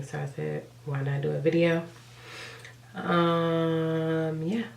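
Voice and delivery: stuffy, raspy sick voice; congested. Real, not acted. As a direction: talk through a blocked nose. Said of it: "congested and a little raspy".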